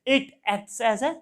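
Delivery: very slow, word-by-word dictation; teacher dictating a definition at writing pace; dictating notes. Acted. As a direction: spell it out slowly so the class can write.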